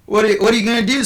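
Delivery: high, loud cry of panic; panicked scream. Acted. Bard in the joke shouting at the priest, high and loud. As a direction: shriek it as the water rises. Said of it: "screams the bard".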